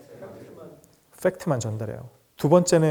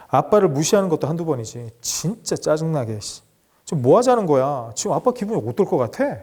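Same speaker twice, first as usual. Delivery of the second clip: mock blaming father. Shown as a demonstration. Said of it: "하수는 이렇게 해요".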